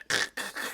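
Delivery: voiceless rasping insect sound; imitated bug noise. Shown as a demonstration. Player imitating the bug move, imitated bug noise. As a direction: make a short buggy rattle without voice. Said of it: "kinda sounded like a, uh, bug noise".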